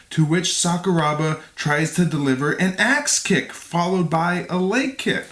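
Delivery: measured, clearly articulated read; fight recap narration. A narrator's reading. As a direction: narrate the bout like a documentary. Reads scripted fight recap.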